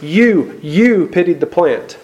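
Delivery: "you, you" stressed with the repeated "you" leaned on, then a slow "pitied the plant"; emphasis on you. Retold or imitated. God presses Jonah with emphasis on "you". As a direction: press hard on each "you". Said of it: "in Hebrew it's emphasis".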